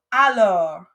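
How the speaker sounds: Alors with the final r sound clearly voiced; a loud, careful model of Alors; teacher's model word. Shown as a demonstration. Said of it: "make sure you try to get that or sound".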